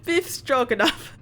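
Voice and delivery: slow mock Russian name drop; bad Russian accent. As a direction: announce the name slowly in a hammed-up Russian accent. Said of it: "my very bad Russian attempt".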